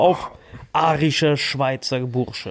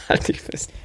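teasing whisper; 5 dB quieter than usual. Real, not acted. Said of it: "teasing build-up".

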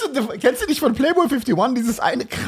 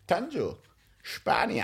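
quiet, deadpan repeat; 10 dB quieter, slower than usual. Retold or imitated. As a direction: drop the voice to near a murmur. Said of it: "Der hat wirklich so gesagt".

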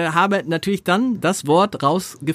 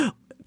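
mock alarmed gasp; 30 dB quieter than usual. Acts out alarmed listener's reaction.

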